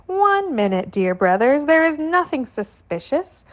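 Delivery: calm the guards down, pitched high and eager; placating cousin. Acted. Cousin soothing airport guards at boarding, high and pleading.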